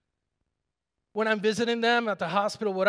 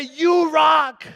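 cheer; 6 semitones higher, 10 dB louder than usual. Retold or imitated. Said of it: "I wanna say".

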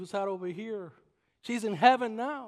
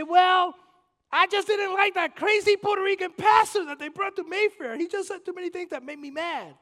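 whiny excuse; 11 semitones higher, 9 dB louder than usual. Retold or imitated. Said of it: "you are not gonna be able to say".

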